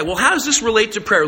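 ordinary talk

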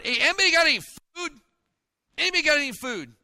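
loud, fast call across a crowd. Retold or imitated. Disciples calling through the crowd for food, loud and fast. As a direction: shout it to the back rows.

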